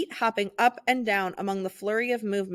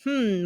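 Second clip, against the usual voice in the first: mumbled hmm. Acted. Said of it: "mumbled the maestro".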